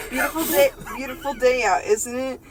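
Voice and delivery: bright, loud cheery greeting to a neighbour; SpongeBob voice. Acted. SpongeBob greeting Squidward, a hint of cheery SpongeBob. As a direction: greet him like an eager sponge. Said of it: "SpongeBob stepped outside".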